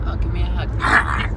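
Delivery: a playful put-on plea for a hug; mock cooing hug voice. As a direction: coax a hug in a cutesy voice. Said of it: "'Cause I give you a little".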